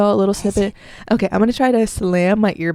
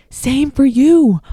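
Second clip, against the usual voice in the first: mock retort; 5 semitones higher, 4 dB louder, much slower than usual. Mock retort to grudge holder.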